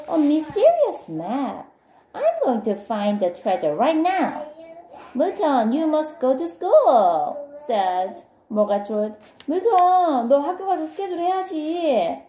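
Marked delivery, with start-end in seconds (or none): 0.1-4.5 excited discovery. Acted. Milton finds the map. 5.1-7.4 high, raised reminding voice; insist, pitched right up; urgent protest. Acted. Friend stopping Milton skipping school, urgently. 9.5-12.2 put-on very high, louder nagging child voice; urgent protest. Friend nagging Milton about school, urgently.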